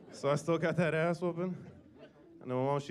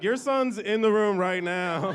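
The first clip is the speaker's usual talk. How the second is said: confused doctor; 5 semitones higher, 8 dB louder, slower than usual. Retold or imitated. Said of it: "She was like".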